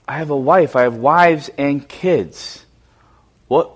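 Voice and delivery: a hushed, pleading prayer, voice sinking low; a mild, understated plea of a scared man; confessing fear to God, softly; frightened prayer. Acted. Jacob's frightened prayer before Esau.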